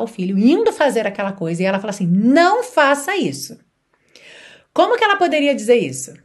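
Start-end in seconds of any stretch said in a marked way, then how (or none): 2.1-3.6 stern, slow scolding command; mother scolding her child, stern; angry mother. Shown as a demonstration. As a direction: warn the child off firmly. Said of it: "uma mãe muito brava".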